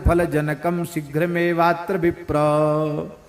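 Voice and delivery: sustained scriptural chant; Sanskrit recitation. Real, not acted. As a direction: intone the verse in measured metre.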